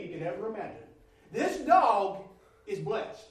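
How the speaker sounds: high, loud, punched key words; preaching with force. Real, not acted. Preacher telling of a well-kept dog, forceful and emphatic.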